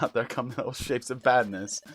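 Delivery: ordinary delivery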